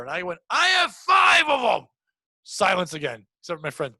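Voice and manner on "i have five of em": high, slow, loud holler; drawn-out fan yell; retold heckle. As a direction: shout it proudly toward the stage. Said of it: "he yelled something else".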